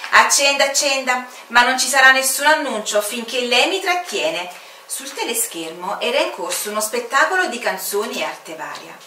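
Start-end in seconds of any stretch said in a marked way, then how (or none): 0.1-1.2 impatient permission. Acted. Commander waves permission. 1.5-4.5 higher, louder, confident; smug official certainty; smug commander. Acted. Commander asserts control.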